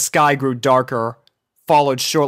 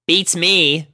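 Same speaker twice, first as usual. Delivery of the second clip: shrugging; 6 semitones higher than usual. A narrator's reading. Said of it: "shrugged Rainbow".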